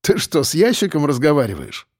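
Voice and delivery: teasing, incredulous question; lightly jeering question; mocking. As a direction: poke fun at a friend. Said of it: "насмешливо окликнул Саня".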